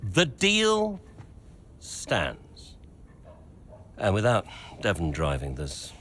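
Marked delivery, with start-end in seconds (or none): 0.0-2.8 firm and cold. Acted. Owner refuses to bend contract.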